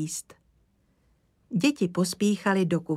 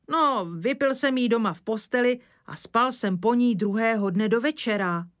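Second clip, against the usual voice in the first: lightly voiced rustic old man, a touch higher; sheepish old woodsman; 4 semitones higher than usual. Old woodsman confessing to the lady about her brandy, lightly voiced sheepish rustic. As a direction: confess with a bashful grin.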